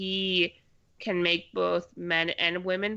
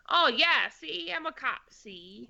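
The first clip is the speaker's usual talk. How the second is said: higher-pitched mock cop, dropping away on the last "see"; movie cop act; 3 semitones higher, slower than usual. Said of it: "she's supposed to be like".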